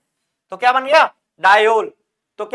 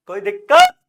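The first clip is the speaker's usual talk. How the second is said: much higher, louder questioning squeak; high-pitched check; 9 semitones higher, 7 dB louder than usual. Real, not acted. Teacher checks again if students have any problem, high-pitched. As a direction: push the question way up high and loud.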